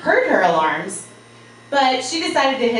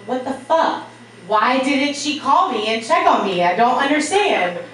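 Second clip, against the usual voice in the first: confused outrage; 5 semitones higher, 3 dB louder than usual. Retold or imitated. Confused about unanswered call.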